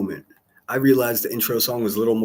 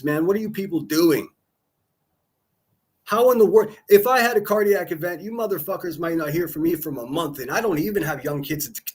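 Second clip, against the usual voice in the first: angry rant; 5 semitones higher than usual. Real, not acted. Streamer scolding Kathy P for joining a panel, angry yelling. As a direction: lay into her, outraged and pitched up.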